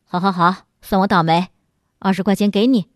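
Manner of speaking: low-pitched, conciliatory giving in; softened tone. A narrator's reading. Passenger giving in to the driver, mildly placating. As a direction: back down from the quarrel. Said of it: "便把口气缓和下来".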